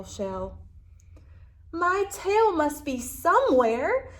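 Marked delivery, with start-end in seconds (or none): 1.7-4.1 higher, eager determined voice; exclaiming. Acted. Lizard vows to keep searching, eager and high. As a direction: insist with bright urgency. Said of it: "exclaimed little lizard".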